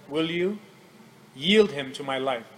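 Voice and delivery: softly voiced, low gentle request. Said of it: "in a very gentle way".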